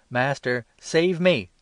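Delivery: sinking man screams for rescue; desperate cry. A narrator's reading. Sinking Peter begs Jesus, loud desperate cry. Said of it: "cried out".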